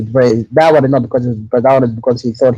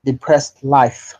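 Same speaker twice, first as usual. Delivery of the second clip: very slow, word by word; to someone hard of hearing; 4 dB quieter, much slower than usual. Real, not acted. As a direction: slowly repeat the misheard words. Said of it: "You have depressed the light?".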